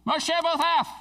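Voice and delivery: high-pitched, exclaiming call; joyful shout of discovery; excited yell. Acted. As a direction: call the name out with an exclamation point. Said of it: "He yelled it out".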